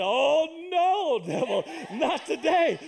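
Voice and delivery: loud, high, laughing rebuke of the devil; commanding rebuke. Retold or imitated. Mom rebuking the devil in a possessed girl, loud and triumphant. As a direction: cast the devil out with a triumphant cry.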